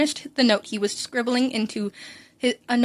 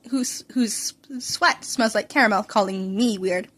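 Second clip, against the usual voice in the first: teasing whisper; 2 semitones lower, slower than usual. Acted. Teasing aside about caramel sweat.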